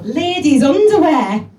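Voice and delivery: mock shocked reveal. Eunice to Betty revealing the dead husband's secret: slow loud scandalised reveal. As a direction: drop the bombshell.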